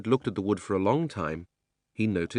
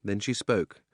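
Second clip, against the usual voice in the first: plain reading voice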